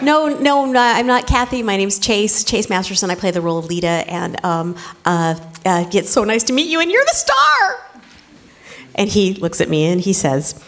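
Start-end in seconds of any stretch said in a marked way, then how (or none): 0.0-7.8 eager correction. Retold or imitated.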